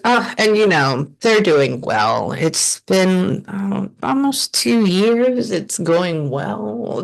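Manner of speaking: lightly voiced mother, settled and slow; calm slow mother voice. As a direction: give it the mom's unhurried energy. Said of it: "That's how her energy feels in my head".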